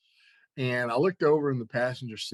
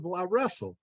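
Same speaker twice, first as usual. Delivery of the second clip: higher-pitched, mildly indignant retort; insulted; 7 semitones higher than usual. Retold or imitated. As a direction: repeat it as if slightly insulted. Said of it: "I was insulted".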